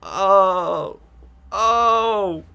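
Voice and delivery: loud, high, drawn-out cries of horror; mock shock. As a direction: act out a big horrified reaction. Acted shock at seeing old woman.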